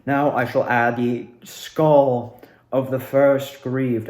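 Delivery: a hint of a theatrical cult leader, slowed down; Delora voice. Recreating her stage role, a light Delora voice. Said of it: "but, like".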